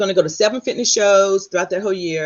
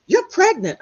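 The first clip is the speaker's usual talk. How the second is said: nurse's news; 11 semitones higher, 6 dB louder, slower than usual. Retold or imitated. Nurse announces pregnancy.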